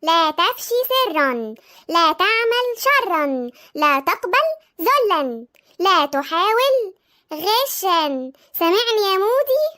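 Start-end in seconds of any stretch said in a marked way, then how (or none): 0.0-8.3 very slow, drawn-out formal recitation; studying aloud. Acted. Sister reciting rules at her brother, very slow measured recitation. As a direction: recite each rule slowly, stretching the words.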